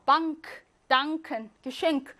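ng then a clear k in 방크; sounded k. Shown as a demonstration. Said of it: "크가 살아나요".

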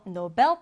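Nobel stressed on the last syllable; stress on second syllable. Shown as a demonstration. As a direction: say Nobel as no-BEL. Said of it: "뒤듬절의 강세가 있어서요". (Nobel의 뒤 음절에 강세)

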